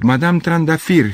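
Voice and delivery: high, loud, drawn-out call; shouting a name. A narrator's reading. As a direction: call out across the street. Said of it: "strigă".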